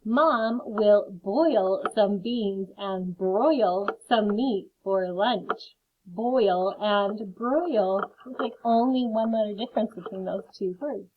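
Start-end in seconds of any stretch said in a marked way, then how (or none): 0.0-8.1 very slow, deliberate reading; teacher reading a sentence slowly to the class. Shown as a demonstration. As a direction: stretch each word for beginners. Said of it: "reading sentence slowly for learners".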